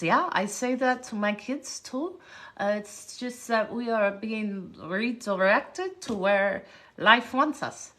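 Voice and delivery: imitated Eastern European accent with German twang; Victoria's Eastern European accent. Scientist says she tells her kids too, Eastern European accent. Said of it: "this is why I was doing my accent".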